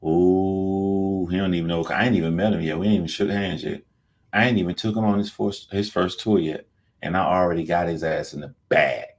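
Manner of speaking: a sly, smug villain savoring his scheme; sly mock bragging in a put-on voice; smug mock gloating. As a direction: gloat like a cartoon schemer who thinks he's already won. Mock a rapper bragging about his plan.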